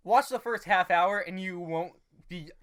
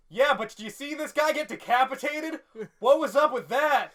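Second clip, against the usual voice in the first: incredulous; 8 semitones higher, 6 dB louder than usual. Retold or imitated. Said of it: "One guy in the back is like".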